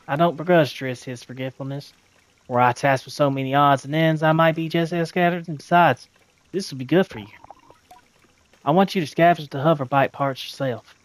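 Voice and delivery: a hint of a southern machinist, firm; Cizo's southern accent. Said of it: "I used a southern accent".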